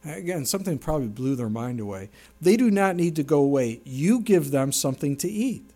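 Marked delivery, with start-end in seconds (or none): 2.4-5.6 firm, insistent command; emphatic command. Acted. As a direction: lay it on as an order, not a suggestion. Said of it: "this is what Jesus said".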